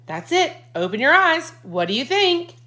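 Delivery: a father bursting to show his surprise; excited Dad. A narrator's reading.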